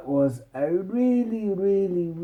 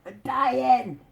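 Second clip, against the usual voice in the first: high, strained choking cry; mock choking panic; 11 semitones higher, much slower than usual. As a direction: gasp it out as if choking. Princess choking on an orange.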